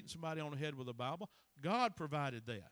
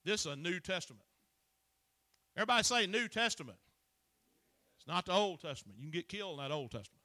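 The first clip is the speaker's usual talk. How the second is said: raised, punchy pulpit delivery; forceful preaching; 3 semitones higher, 5 dB louder than usual. Acted. Preacher telling the congregation to submit to the book, forceful. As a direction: drive it home to the congregation.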